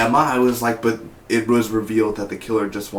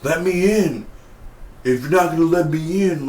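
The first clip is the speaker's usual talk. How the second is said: Stavo pleading; 6 semitones higher than usual. Retold or imitated. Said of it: "Stavo's like".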